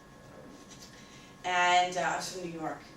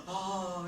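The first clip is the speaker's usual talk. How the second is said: excited gasp. Retold or imitated. Friend running up with bagel news, excited gasp. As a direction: imitate a breathless, thrilled gasp.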